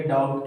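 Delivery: "डाउट" gliding straight into t; silent B. Shown as a demonstration. Teacher drilling doubt with students, silent B in "डाउट". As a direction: say "डाउट" with no b before the t. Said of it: "बी का उच्चारण नहीं होगा".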